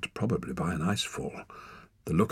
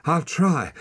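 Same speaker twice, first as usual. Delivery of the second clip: panting; 9 semitones higher, 4 dB louder than usual. Acted. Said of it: "panted Torak".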